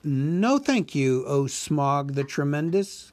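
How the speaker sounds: a small hobbit flattering the dragon; Bilbo the hobbit. Acted. Narrator voices Bilbo.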